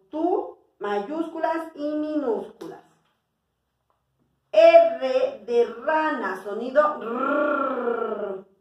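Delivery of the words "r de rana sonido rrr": slow, "rrr" rolled long; teacher rolling the r; letter sound demo. Shown as a demonstration. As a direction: roll the "rrr" slowly for children.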